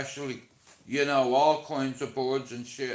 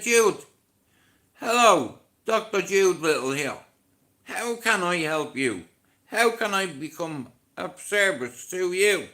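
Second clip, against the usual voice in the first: loud, high, hammed-up posh receptionist greeting; mock doctor phone voice; 3 semitones higher, 4 dB louder than usual. Mocking himself, answering his neighbour as a pompous doctor. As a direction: put on a grand doctor's telephone manner.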